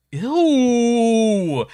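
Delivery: high loud shriek of disgust. Real, not acted. Streamer recoiling from creepy Madoka, high loud ew.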